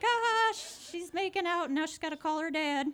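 high mocking laugh. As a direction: tease her, laughing.

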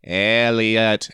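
lightly voiced alien drawing out the name; a hint of a slow alien croon. E T points to the nearby city, lightly voiced alien. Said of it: "E T points to the nearby city and says".

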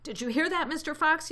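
high, loud yell; taunting yell. A narrator's reading. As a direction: holler it down a hole. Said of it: "yelled Bean".

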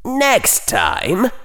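high, cold, measured warning; icily. A narrator's reading. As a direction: say it like ice. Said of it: "Slytherin said icily".

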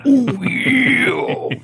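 squeaky high-pitched oh yeah; high mock squeal. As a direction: shoot the voice way up. Repeated, far higher, mock.

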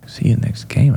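breathy disbelieving question rising on game; incredulous echo. Retold or imitated. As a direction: echo it in shock, rising at the end. Speaker repeats in disbelief.

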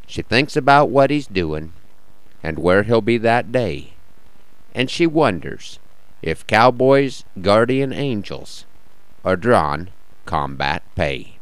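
measured cowboy poetry reading; cowboy poem recital. Acted.

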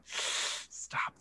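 breathy whispered Stop. Retold or imitated. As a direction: whisper it, pleading. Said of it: "And I was like".

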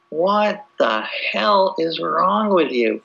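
mock outraged rant. Retelling Stephen Fry's answer to God, mock outrage. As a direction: play an appalled critic scolding God. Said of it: "but he's like".

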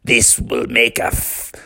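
lightly voiced pirate, drawn out; pirate dad. Pirate dad admires son's chopping, slow pirate voice. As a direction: give slow approval as a storybook pirate. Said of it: "the pirate dad said".

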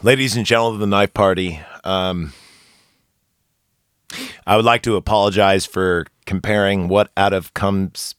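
low, formal mock address; mock formal apology. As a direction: deliver a solemn fake public apology. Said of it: "let me apologize".

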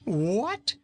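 high, loud cry of horror; horrified cry. A narrator's reading. Fat king hears he'll be a pincushion, horrified cry. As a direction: yelp in shock. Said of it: "cried Rinkitink in horror".

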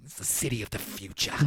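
stiff wooden line reading; low, flat movie line; cardboard cutout delivery. Retold or imitated. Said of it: "He delivers it like he's a cardboard cutout".

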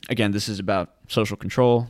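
ordinary talk, nothing marked

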